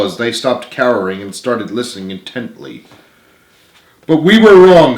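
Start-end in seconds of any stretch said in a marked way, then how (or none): 4.1-5.0 sincere. Acted. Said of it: "said Peter sincerely".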